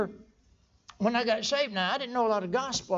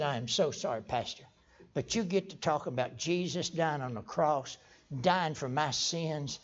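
low, soft, halting apology; apologetic old churchgoer; 5 semitones lower, 4 dB quieter than usual. Retold or imitated. Old plowman apologizing to his new pastor, subdued and humble. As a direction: hold it down, stumbling gently toward the amen.

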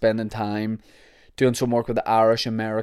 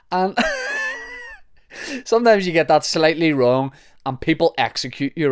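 higher, amused, laughing into the words; 6 semitones higher than usual. Real, not acted. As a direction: start the line through a laugh. Laughs at own exaggeration while talking.

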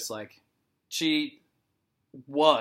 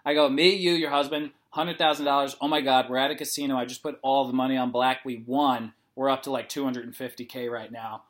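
animated, louder make-believe celebration; hyped pep talk; 6 dB louder than usual. Retold or imitated. Therapist distracting a scared patient with a trip, hyped up. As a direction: play up an imagined casino win, excitedly.

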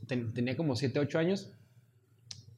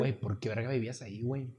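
tipsy slurred question; 2 semitones lower, 6 dB quieter than usual. Real, not acted. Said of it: "ando pedo".

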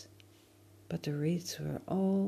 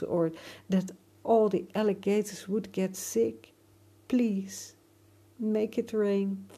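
pleading; 4 semitones higher than usual. Acted. Frightened boy pleading with sky.

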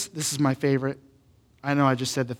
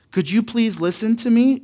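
calm, polite request with a higher lilt; gentle, patient asking; 6 semitones higher than usual. Shown as a demonstration. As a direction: ask calmly, pitched up, rising at the end. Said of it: "saying it in a calm tone".

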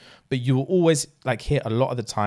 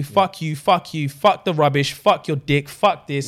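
acted angry tirade; 2 semitones higher than usual. Acted break-up quarrel with John.

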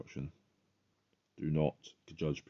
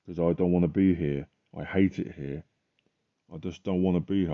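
emotional plea; 4 dB louder than usual. Retold or imitated. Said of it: "I got very emotional about it".

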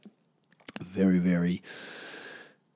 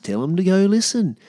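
fired-up urging; 10 semitones higher, 4 dB louder than usual. Real, not acted. Urging listeners to share.

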